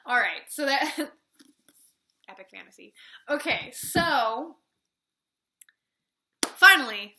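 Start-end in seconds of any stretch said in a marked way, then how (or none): 0.1-1.0 whispered aside. Real, not acted. Reviewer whispering to herself after a tangent. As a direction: drop to a breathy whisper to get back on track.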